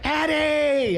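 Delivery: high, drawn-out mock greeting call; Andy Dick. Andy hailing his friend from the restaurant, high comic call. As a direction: sing the name out high and long.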